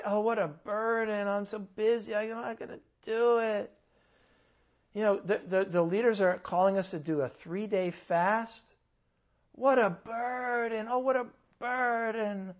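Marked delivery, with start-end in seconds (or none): 0.0-3.7 whiny complaining churchgoer, higher; mocking a grumbling believer; mock whining. 9.5-12.5 drawn-out mock complaint, higher; mimicking a grumbling believer's sigh; mock whining. Mocking complaining churchgoer.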